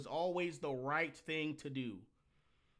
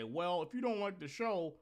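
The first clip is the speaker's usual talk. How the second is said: mock quote; 4 semitones higher than usual. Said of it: "no one fucking talks like this".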